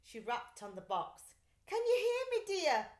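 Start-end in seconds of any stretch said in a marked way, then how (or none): 1.6-2.9 high, loud call into the box. A narrator's reading. Mother calling into the mailbox, high and loud. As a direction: call out to him inside. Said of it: "she called".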